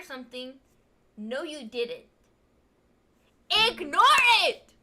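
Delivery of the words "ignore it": IGNORE IT! punched out loud, word by word; emphatic warning. Acted. Viewer passing on the mountain rule, emphatic warning. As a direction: hit "Ignore it!" hard and louder.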